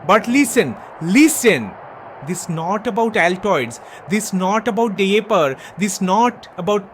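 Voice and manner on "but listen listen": put-on loud "listen" in a Bangladeshi accent; loud demand. Heel demanding the crowd listen, loud in the accent. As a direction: bark for attention in the accent.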